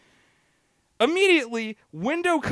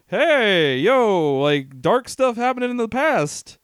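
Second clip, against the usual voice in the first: podcast host; slower than usual. Retold or imitated. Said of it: "my goddamn podcast of, like".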